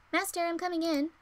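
a hint of a cheerful young servant; Yunho's voice. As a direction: voice the sweet servant boy. Reading Yunho's line in a game.

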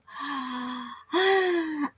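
long, drawn-out sigh; winding-down sigh. Real, not acted. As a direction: let out a long breath after laughing. Winding down after laughing.

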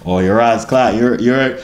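lightly put-on British accent; attempted British accent. Shown as a demonstration. Showing off to viewers as an accenteer, attempted British accent. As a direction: have a rough go at British. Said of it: "I can do multiple accents".

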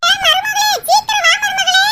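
mother-in-law hollering for her daughter-in-law, loud; calling out. Acted. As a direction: shout for her to hurry.

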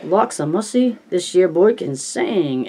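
screeching caricature voice. Retold or imitated. Richie praising Stan's singing in a screeching caricature voice. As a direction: stretch it out in a shrieking caricature. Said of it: "in his pickaninny voice".

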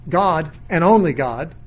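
"God, and only God" slow and deliberate; slow, measured emphasis on "only God"; emphatic ONLY. Shown as a demonstration. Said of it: "the word alone is emphatic".

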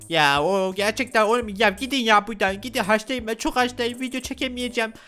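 lightly put-on, high-pitched sick complaint; mock whine of a patient pestered by visitors; whining patient. Sick panda telling visitors to leave, whiny protest.

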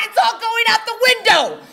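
fed-up mom screaming the threat; shouted threat. Retold or imitated. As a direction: bellow it as the last straw. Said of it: "my mother screamed".

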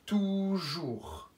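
Toujours drawn out syllable by syllable; Toujours, each syllable stretched; slow dictation word. Shown as a demonstration. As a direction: dictate Toujours slowly to children. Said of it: "Je vous laisse un petit peu plus de temps".

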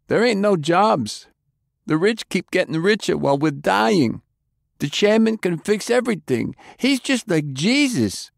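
high, feverish zealot voice; fanatical prisoner. Acted. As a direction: preach the chairman like a true believer.

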